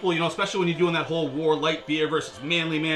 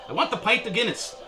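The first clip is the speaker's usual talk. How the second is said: higher-pitched, amateur Irish lilt; attempted Irish accent; 4 semitones higher than usual. Shown as a demonstration. Ordering a pint at the pub, attempted Irish accent. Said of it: "best accent I can do when it comes to Irish".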